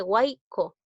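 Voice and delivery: "huaico" with the Y said as a vowel I; Y pronounced as I. Shown as a demonstration. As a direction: say "huaico" with an I glide in the middle. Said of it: "lo estás pronunciando como I".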